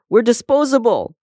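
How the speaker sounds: high, loud lament from a comb; wailing cry. A narrator's reading. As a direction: cry it out in high-pitched despair. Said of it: "cried Comb".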